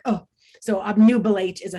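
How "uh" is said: "uh" as a very short, quick schwa. Shown as a demonstration. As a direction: toss off "uh" as a brief unstressed vowel. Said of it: "kind of like this quick".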